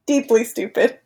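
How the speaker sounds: flat monotone robot voice. Pretend. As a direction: speak like a dumb machine. Playing a robot.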